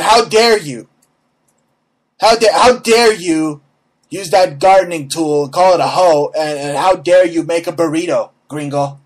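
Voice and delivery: mock outrage. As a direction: ham up a furious scold. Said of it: "they get piping mad".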